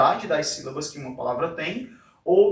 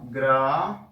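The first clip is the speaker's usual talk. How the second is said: "Gramática" with long gaps between syllables, lower; 4 semitones lower than usual. Shown as a demonstration. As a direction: split Gramática into separate pieces. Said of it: "do mesmo jeito".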